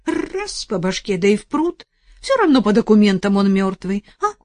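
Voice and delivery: hint of a rough village woman, scheming; lightly voiced old woman urging murder. Старуха подбивает Арсения утопить мужа, лёгкий грубоватый голос.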